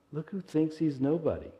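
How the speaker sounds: mock indignant rabbi; snide rabbi. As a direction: sneer at the humble janitor. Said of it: "the rabbi turns to the head of the synagogue and goes".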